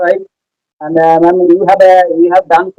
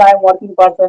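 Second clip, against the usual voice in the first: normal talking voice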